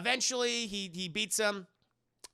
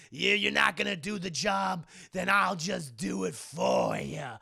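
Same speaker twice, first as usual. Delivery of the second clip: acted villain threat; 3 dB louder than usual. Violator threatens Spawn.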